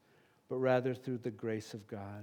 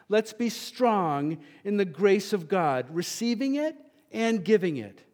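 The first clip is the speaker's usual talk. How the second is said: preaching climax; 4 semitones higher, 7 dB louder than usual. Real, not acted. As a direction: lift the congregation.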